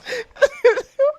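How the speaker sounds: real giggling fit; high laugh. Real, not acted. Agent can't stop laughing. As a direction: laughs despite trying to stop.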